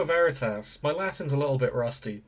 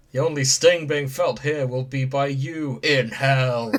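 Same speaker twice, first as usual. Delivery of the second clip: slow, hammed-up action-hero one-liner; mock-epic tough-guy line; dramatic reading; 5 dB louder than usual. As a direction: deliver it like a cheesy movie hero. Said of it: "my personal favourite line is".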